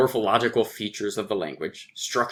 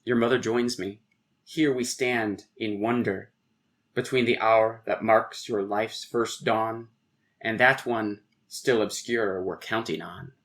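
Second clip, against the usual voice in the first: measured, understated poem recital; poem reading. Acted. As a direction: read the verse line by line with short pauses. Reads a poem aloud.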